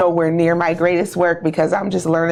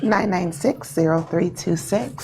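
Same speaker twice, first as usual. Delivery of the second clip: professional voice; 4 dB quieter than usual. Shown as a demonstration. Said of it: "in my professional voice".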